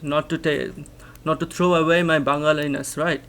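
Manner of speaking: ordinary talk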